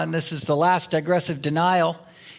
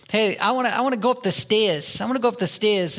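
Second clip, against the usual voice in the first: imitated kids' Maine accent, R dropped in stairs; 3 semitones higher, faster than usual. Dad imitates his kids picking up mom's speech, Maine accent. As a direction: lightly mimic a child's Maine accent. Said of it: "when her Maine accent was still".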